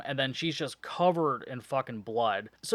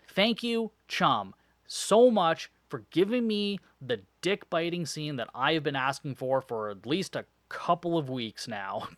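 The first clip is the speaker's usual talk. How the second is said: sarcastic thanks. Real, not acted. Sarcastic thanks for long-requested scene.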